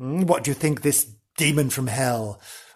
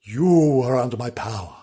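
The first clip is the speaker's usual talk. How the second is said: lightly voiced commanding demon; demonly. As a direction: draw out the opening word like a demon. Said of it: "he said it very demonly".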